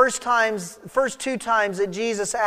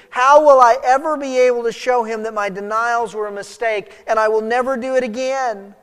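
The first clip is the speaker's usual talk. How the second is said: high, urgent, bewildered protest; desperate pleading; 4 semitones higher, 6 dB louder than usual. Acted. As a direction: plead higher and louder, frantic to prove your love. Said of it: "I think Peter had to be thinking".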